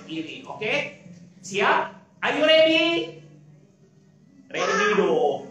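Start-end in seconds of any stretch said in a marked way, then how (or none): 4.5-5.5 shouted answer. Shown as a demonstration. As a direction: show the kids how to shout it back.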